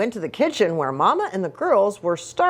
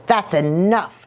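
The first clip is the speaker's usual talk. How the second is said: scolding; 2 semitones lower than usual. Acted. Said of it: "scolded Mama".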